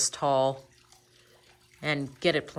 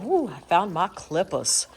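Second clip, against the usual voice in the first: slow, higher Southern drawl with a lift; Southern accent; 4 semitones higher, 4 dB louder than usual. Acted. Tribute to Miss Lippy, a playful Southern accent. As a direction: try out a Southern accent, a bit louder and slower. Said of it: "Southern accent this morning".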